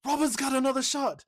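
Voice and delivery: high, loud theatrical proclamation; crowd announcer. Acted. Co-host quoting the film's call to the crowd, loud proclamation. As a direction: proclaim it grandly, stretching the end. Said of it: "He's like".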